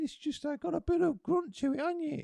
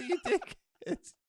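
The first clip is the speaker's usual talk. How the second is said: laughing insult; 2 semitones higher, slower than usual. Acted. Insulting partner mid-scene.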